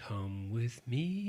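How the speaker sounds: slow, hushed ghostly beckoning; eerie whisper. Pretend. Hosts play a psychic vision calling, eerie whisper. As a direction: lure them like a vision, very softly.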